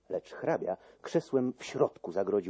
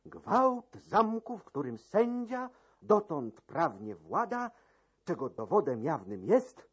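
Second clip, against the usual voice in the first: high, formal raised announcement; court usher's proclamation; 7 semitones higher than usual. Acted. Usher announcing a formal inquiry, high pompous proclamation. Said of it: "zawołał trzykroć".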